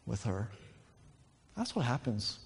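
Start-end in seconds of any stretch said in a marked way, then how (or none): 0.1-0.5 lovestruck. Retold or imitated. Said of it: "You fall in love".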